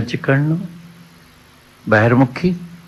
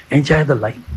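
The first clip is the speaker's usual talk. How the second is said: mocking worldly advice; 3 semitones higher, much slower than usual.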